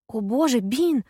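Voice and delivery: high, loud excited cry. Acted. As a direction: burst out with delighted surprise. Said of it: "взволнованно говорю я".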